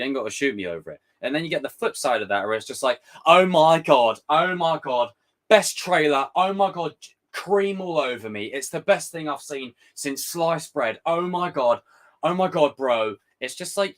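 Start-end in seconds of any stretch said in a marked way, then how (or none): 3.3-13.2 a hint of a swooning superfan, a bit louder; mock gushing fan. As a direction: gush like a hyped fan, half-mocking. Mocking overhyped trailer fans.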